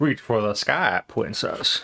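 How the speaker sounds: put-on breathy whispered cowboy voice. Addressing a princess in a cowboy voice. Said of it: "I feel a cowboy voice. Check".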